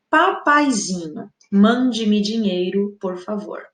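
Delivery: slow, tender request to daddy; pleading sweetly. Shown as a demonstration. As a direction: coax it gently like a loving child. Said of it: "pra dar a ideia de que, né, que é uma solicitação e não uma ordem".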